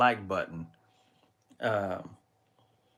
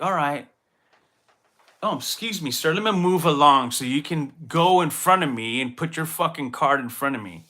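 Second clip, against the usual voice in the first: mock polite; 3 semitones higher, 4 dB louder than usual. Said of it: "maybe I would have been like".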